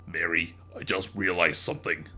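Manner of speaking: lightly voiced pondering sister; lightly voiced Susan pondering. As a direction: muse it quietly. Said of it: "Susan pondered".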